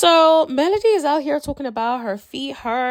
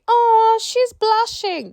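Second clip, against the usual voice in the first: high, slow, squealed mock cheer; mocking the friend; 12 semitones higher, 4 dB louder, slower than usual. Mocking Nell telling everyone Mel is blushing, high gushing. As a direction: imitate the friend gushing over nothing. Mocking Nell's overexcited claim.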